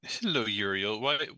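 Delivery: normal talking voice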